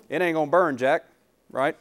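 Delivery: Duck Dynasty impression. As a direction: give it a touch of backwoods Southern accent. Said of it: "little Duck Dynasty there for you".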